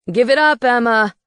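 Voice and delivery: a wizard yelling at a fleeing witch. A narrator's reading. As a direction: shout her down from behind. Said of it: "he yelled".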